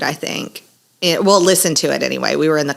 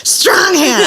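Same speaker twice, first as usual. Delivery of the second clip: laughing repeat; 12 semitones higher, 3 dB louder than usual. Real, not acted.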